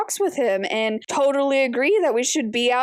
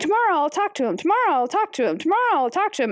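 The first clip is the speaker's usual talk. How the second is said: higher-pitched, dithering, hesitant delivery; 5 semitones higher than usual. Speaker recaps what she wrote about Mary, imitating Mary putting it off. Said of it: "Mary ran out of tomorrows because she's like".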